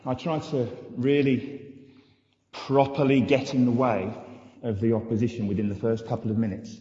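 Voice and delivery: muffled through a goalie helmet; talking through a face mask; inside a hockey helmet. Real, not acted. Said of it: "get a microphone to work under here".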